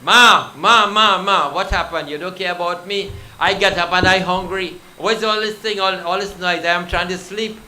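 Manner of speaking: put-on high, loud whiny child calling for his mother; a just-woken child loudly complaining to his mom; child Krishna whining. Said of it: "He gone pulling his mother".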